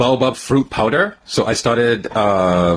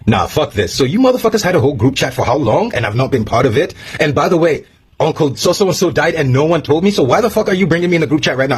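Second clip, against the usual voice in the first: rising, higher-pitched indignant rant; retold rant; 6 semitones higher than usual. Retelling his rant at family in group chat, higher and heated. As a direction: build the outrage line by line. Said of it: "I was about to go off".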